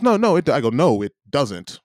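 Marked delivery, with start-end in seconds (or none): 0.0-0.5 high, louder mock objection; high-pitched retold protest, cut short; mimicked protest. Mimics the clerk's flustered protest. 0.7-1.8 slow, measured retold correction; "No" held long, "doesn't" set apart; firm contradiction. Retells his firm contradiction of her.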